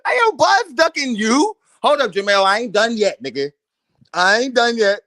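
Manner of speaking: loud taunting call-out; loud callout. Real, not acted. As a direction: shout it at the camera. Calling out the fighter.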